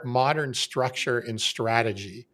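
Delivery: modern said slowly and with weight; stress on modern. Real, not acted. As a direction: lean on modern, drawn out. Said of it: "I'm gonna emphasize the word modern".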